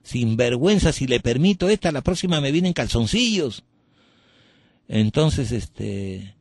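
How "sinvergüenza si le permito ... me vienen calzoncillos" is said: higher, scandalized scolding; mock outraged priest; indignant priest. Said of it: "dijo, ¿no?".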